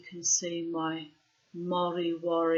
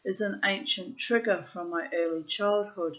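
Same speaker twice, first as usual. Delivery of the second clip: measured, deliberate literary reading; journal read aloud; 5 dB louder than usual. Acted. Writer reading their diary to listeners, measured recital. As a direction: read it out in weighted, separated phrases.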